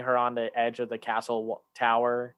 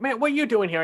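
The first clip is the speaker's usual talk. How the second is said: retold challenge; 11 semitones higher, 4 dB louder, faster than usual. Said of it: "a line where he's like".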